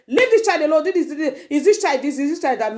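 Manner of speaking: high, rapid-fire mock rebuke; imitating a scolding husband. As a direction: tell off the wife in front of the children. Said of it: "You don't stroke her".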